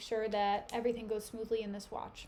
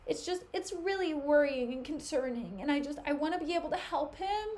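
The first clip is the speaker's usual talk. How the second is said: higher, falsely worried voice; fake concern; 3 semitones higher than usual. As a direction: act sincerely worried, but it's a ploy. Iago faking concern.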